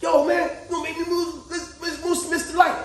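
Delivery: mock holler at the driver ahead; impatient call. Driver stuck behind a stalled car yells, mock impatient. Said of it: "you know how you be like".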